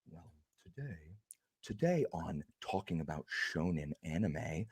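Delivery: a hint of a pompous know-it-all lecturing the viewers; snooty YouTube commenter. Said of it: "That's my impression of a YouTube commenter".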